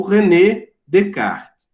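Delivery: slow Descartes with silent S; French pronunciation of Descartes. Shown as a demonstration. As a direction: say Descartes without sounding the S. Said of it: "não pronuncia o S".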